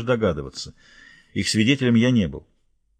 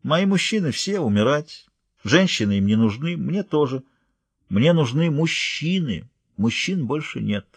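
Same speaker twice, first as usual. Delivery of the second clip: reasoning calmly; 3 semitones higher, slower than usual. Acted. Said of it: "рассудительно сказала".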